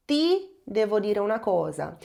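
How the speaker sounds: Ti devo dire una cosa spoken clearly in Italian; teacher reading an Italian example; Italian sentence. Shown as a demonstration. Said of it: "ou seja".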